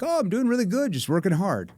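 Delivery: lightly voiced cheery salesperson; hint of a canned salesman; mild mock salesperson; typical salesperson. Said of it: "Most salespeople are like".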